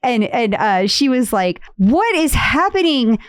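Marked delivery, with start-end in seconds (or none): 1.8-3.2 mock indignant complaint. Host imitating a lady's text complaint, mock indignant. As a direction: retell it as an irate customer. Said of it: "if she was yelling or not".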